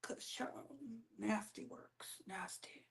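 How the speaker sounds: breathless whispered gossip aside. Real, not acted. Gossip host whispering to the chat about nasty works. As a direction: drop to a hush for the juicy bit.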